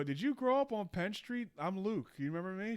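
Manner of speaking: lightly voiced excited hello; eager greeting. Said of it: "And I go".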